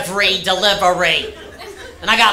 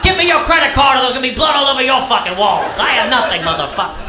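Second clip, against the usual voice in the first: menacing threat; 2 semitones higher, faster than usual. Acted. Robber threatening hotel clerk.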